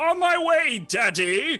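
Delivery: loud, obnoxious, put-on yell. Voicing a character fetching water for Daddy: obnoxious shout in character. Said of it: "I will shout in my very obnoxiously Varkashian type way".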